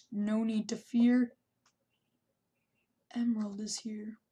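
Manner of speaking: half-serious hero announcement; mock hero. Heroic announcement.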